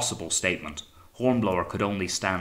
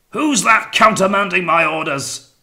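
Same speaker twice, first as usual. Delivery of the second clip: loud, high-pitched roar; captain's bellow; 11 semitones higher, 11 dB louder than usual. A narrator's reading. Captain challenging whoever countermanded him, bellowing. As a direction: bellow it from the far end of the ship. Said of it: "the captain bellowed from the poop".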